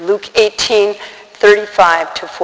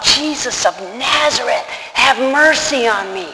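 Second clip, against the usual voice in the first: restrained mock yell; 3 semitones higher than usual. Blind beggar calling to Jesus as he passes, in a held-back yell. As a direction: call out without really yelling. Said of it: "He yells out. I'm not gonna yell".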